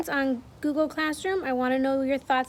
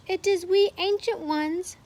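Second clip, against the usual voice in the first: meek voice; 6 semitones higher than usual. Acted. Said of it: "said a meek voice".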